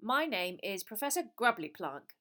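crisp no-nonsense teacher voice; brisk teacher. A narrator's reading. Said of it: "she said briskly".

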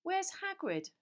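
loud repeat. A narrator's reading. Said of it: "Harry repeated loudly".

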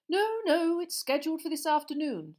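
high, loud hearty minister; jovial official, a bit too cheery; Fudge voice. Acted. Minister greeting the boy, overly hearty.

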